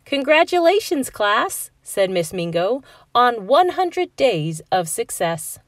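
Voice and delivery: high, loud proud announcement; a teacher's proud cheer; celebratory. Acted. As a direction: cheer the class on.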